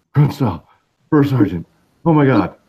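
acted-out winded, panting, huffing, out of breath. Retelling a fan coming up at a baseball game: imitating someone huffing and puffing. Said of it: "all huffing and puffing".

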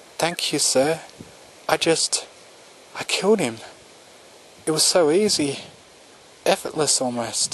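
voice quivering, slightly trembling and quavering. Narrator reads a character thanking her lord after a kill, voice quivering a little. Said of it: "Her voice was quivering a little".

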